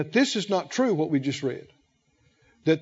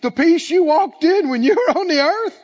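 louder and higher, bursting with wonder; excited thanks; 5 semitones higher, 5 dB louder than usual. Pretend. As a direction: receive it with overjoyed disbelief, laughing. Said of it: "like Jesus said to Keith".

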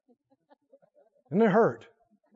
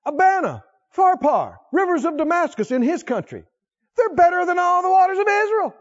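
loud, high scornful boast; proud angry Naaman; 10 semitones higher, 5 dB louder than usual. Acted. Preacher acting furious Naaman scorning Israel's waters, loud. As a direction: sneer at Israel's rivers.

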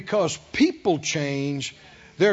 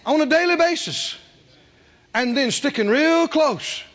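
emphatic preaching; 5 semitones higher, 4 dB louder than usual. Real, not acted. Preaches at full force.

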